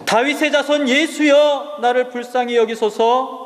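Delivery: blind beggar calling out to Jesus; crying out. Acted. 소리쳐 부르짖듯. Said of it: "바디메오가 갑자기 소리를 지릅니다".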